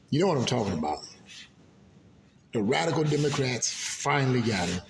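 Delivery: ordinary delivery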